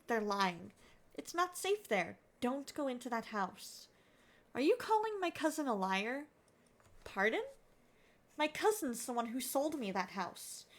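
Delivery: lightly voiced grumpy old neighbour and polite caller; acted phone call. Caller warning a grumpy neighbour about his house, mildly acted. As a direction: play both sides of a tense call.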